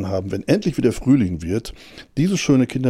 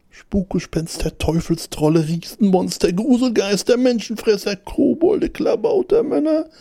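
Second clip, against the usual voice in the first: counting off monsters; 11 semitones higher than usual. A narrator's reading. Hare listing dreadful monsters, building from high to very high. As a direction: list climbing ever higher to a squeal. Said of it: "zählte alle furchtbaren Ungeheuer auf".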